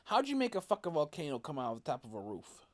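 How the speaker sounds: loud, exasperated ranting; angry rant. Real, not acted. Gamer rants at the game after taking damage.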